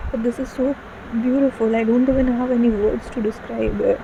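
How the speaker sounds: moved close to tears; tearful. Real, not acted. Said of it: "And I'm crying again".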